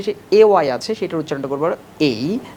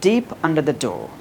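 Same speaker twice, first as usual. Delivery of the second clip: very slow, word by word; slow drill; much slower than usual. Shown as a demonstration. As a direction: spell it out slowly like a drill. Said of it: "প্রথমে slowly বলবা". (ধীরে ধীরে অনুশীলন)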